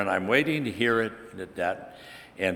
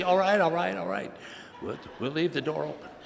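wife giving in; 7 semitones higher than usual. Retold or imitated.

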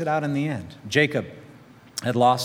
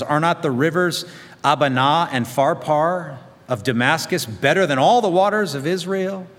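scornful, louder rhetorical challenge; raging; 3 semitones higher, 5 dB louder than usual. Acted. Naaman scorning Israel's rivers, raging. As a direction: spit out the comparison in a huff. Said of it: "he went away in a rage".

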